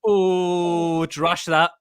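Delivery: long "oh" into a dismissive verdict; Gary Neville. Retold or imitated. Fan mimics commentator rejecting a penalty, mock-dismissive. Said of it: "and he goes".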